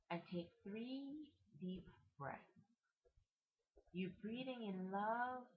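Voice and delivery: slow, drawn-out breathing guidance; guided meditation. Acted. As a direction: stretch the words, pausing between each breath phrase.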